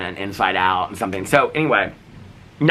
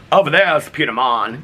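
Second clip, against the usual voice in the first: loud, higher Boston-style East Coast voice; East Coast accent; 5 semitones higher, 4 dB louder than usual. Retold or imitated. Hard-of-hearing grandma by the pool, East Coast accent. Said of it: "this East Coast accent".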